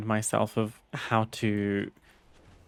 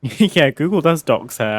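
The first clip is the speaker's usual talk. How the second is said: laughing; 4 semitones higher, 9 dB louder than usual. Real, not acted. Laughing at a doxxing joke.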